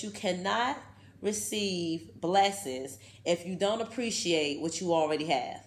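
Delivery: slow, deliberate reading with pauses; slow first reading. Shown as a demonstration. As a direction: read it slowly, weighing each word. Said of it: "Let me read that one more time".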